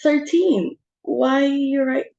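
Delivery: a sudden high, loud "Thirteen?", then slowing right down; alarmed surprise. Acted. Hostess suddenly realising thirteen at table, alarmed. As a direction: jolt up at the number, then let it sink in slowly.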